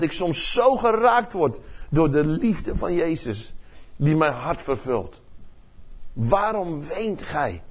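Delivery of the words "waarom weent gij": slow, soft "Waarom" drawn out tenderly; gentle Jesus. Retold or imitated. Jesus asks the weeping Maria why she cries, slow and soft. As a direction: ask it softly and slowly, leaning on "Waarom". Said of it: "Jesus asks Maria again".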